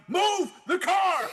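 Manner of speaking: high, slow, drawn-out mock order; emphatic imitation of ordering a driver; retold urgent command. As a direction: stretch each word so it gets through.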